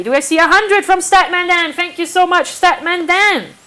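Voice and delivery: loud, high auction excitement; excited yelling. Real, not acted. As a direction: cheer the new bid loudly. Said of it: "I'm sorry if I'm yelling".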